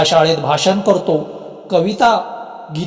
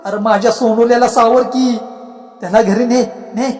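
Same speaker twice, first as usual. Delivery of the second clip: pleading; 5 semitones higher than usual. Acted. Ghost begs crying son unheard.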